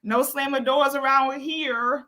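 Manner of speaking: acted-out parental telling-off; mock scolding mother. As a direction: draw out a mom's warning. Mother scolding back, retold.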